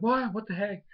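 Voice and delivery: high-pitched mock disbelief; baffled surprise. Fletchling after striking a bubble clone, baffled surprise. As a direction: imitate someone completely caught out. Bird finds it struck a clone.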